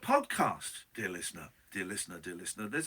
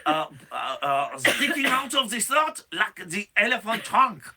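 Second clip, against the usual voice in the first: hammed-up Swiss lament, a bit higher; playful fake Swiss voice, slightly raised; mock Swiss accent; 3 semitones higher, 3 dB louder than usual. Host voicing a Swiss citizen about Paul's return, mock Swiss accent. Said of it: "It's a Swiss accent".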